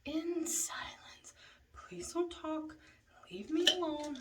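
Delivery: mock snapping. Snapping at friends after night.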